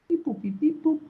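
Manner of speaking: high beeping droid noises; toy robot voice. Retold or imitated. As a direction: beep like R2-D2, high and chirpy. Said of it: "Sounds like R two D two".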